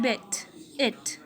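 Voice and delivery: slow "bit", then "it", with the short i; short vowel demonstration. Shown as a demonstration. Teacher showing the second front vowel, "bit" and "it" said slowly and apart. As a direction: draw attention to the i in "bit" and "it". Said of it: "like that".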